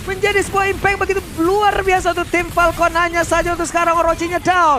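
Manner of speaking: hyped live play-by-play call; fighting game announcer. Acted. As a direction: call the final push like a finals caster. Caster calls the winning teamfight.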